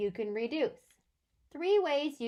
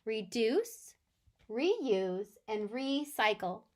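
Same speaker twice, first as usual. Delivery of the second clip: reduce, reuse, recycle said softly, one by one; softer list; slower than usual. Shown as a demonstration. Teacher recapping the list for absent kids, soft. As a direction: list them gently. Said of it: "we made a little list".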